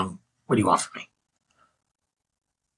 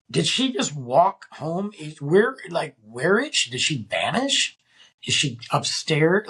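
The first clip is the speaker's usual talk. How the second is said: retold bafflement; 4 semitones higher than usual. Wondering where the missing woman went, baffled rising questions. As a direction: stretch each question upward, searching for answers.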